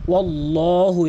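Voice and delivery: ওয়াল্লাহু with the full heavy ল্লা; correct reading. Shown as a demonstration. Teacher showing students the correct ওয়াল্লাহু. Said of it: "এখানে বলতে হবে".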